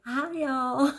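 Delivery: high, drawn-out greeting; imitated son's suggestion. Son coaching mom on her video greeting, high imitated hello. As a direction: sing out a high, playful greeting. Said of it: "her little fourteen-year-old son".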